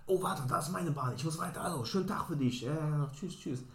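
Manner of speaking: lightly voiced drunk stranger rushing off; chirpy goodbye, half-voiced; tipsy woman leaving. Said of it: "drunk woman leaves".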